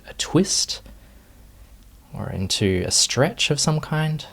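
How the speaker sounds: calm, unhurried meditation guiding with long pauses; guided meditation. Real, not acted. Teacher leading students into meditation posture, unhurried guided meditation. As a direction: ease them gently through each movement, leaving space. Leads the settling movement practice.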